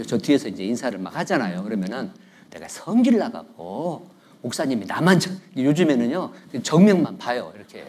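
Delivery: usual speaking voice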